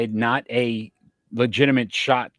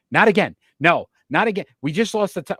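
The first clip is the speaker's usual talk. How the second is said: higher, louder mock-bothered protest; retold exasperation; 6 semitones higher, 5 dB louder, faster than usual. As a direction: replay your own dismayed inner voice. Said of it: "it was bothering me".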